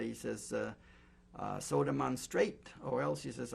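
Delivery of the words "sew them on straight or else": loud, threatening order from a guard; retold threat. Guard threatening the prisoner's father, loud and menacing. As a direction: bark it like a menacing soldier.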